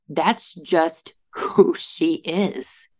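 hushed whisper of realization. Real, not acted. Quiet realization about the bully.

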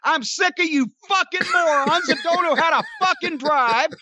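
furious, loud and high, yelling at the crowd; angry shouting. Retold or imitated. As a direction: scream it at the gawkers in full rage. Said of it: "it was much louder than what I am recreating".

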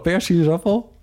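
high, teasing mock question. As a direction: tease her with the word. Teasing with the disgusting word.

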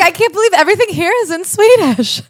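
loud, high, frantic disbelief; hammed-up panic at a new country; mock overwhelmed wail. Exchange student to her friend, loud mock panic.

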